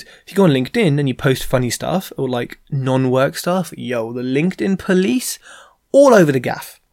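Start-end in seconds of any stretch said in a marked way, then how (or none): 3.8-6.8 a hushed warning between friends; whispered aside. Real, not acted. To the viewer about LinkedIn, a whisper. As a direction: whisper it like a secret.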